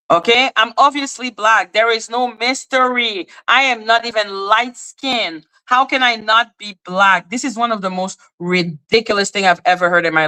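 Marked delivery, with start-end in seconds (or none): 0.1-1.7 higher-pitched, exaggerated sarcasm; sarcastic. Real, not acted. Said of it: "reacted to it with sarcasm". 1.7-7.3 higher, incredulous sarcasm; sarcastic. Real, not acted. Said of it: "reacted to it with sarcasm".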